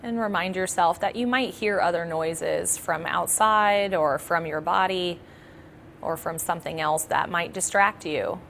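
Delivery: calm, measured meditation guidance; guided meditation. Acted. Yoga nidra teacher settling listeners into practice, calm guided meditation. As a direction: talk them gently into relaxation, leaving long pauses.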